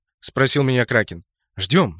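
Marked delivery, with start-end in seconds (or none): 1.6-2.0 low, composed single word; calm. A narrator's reading. Leader answering comrade's question, calm. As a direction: answer calmly, pitch dropped. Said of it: "спокойно сказал я".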